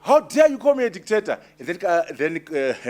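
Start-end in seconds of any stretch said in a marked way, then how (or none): 0.0-1.4 higher, indignant mock anger; a retold leader's furious reply; furious retort. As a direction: throw the accusation back, outraged. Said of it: "he was very furious".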